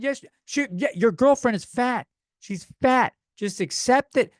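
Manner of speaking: high, loud, taunting contestant. Retold or imitated. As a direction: rub it in with a high mocking taunt. Voicing the other contestant.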